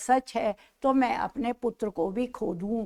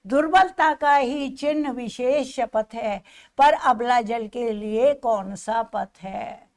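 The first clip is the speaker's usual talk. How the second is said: measured, recited verse; poem recitation; 3 dB louder than usual. Acted. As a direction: declaim the verse with feeling.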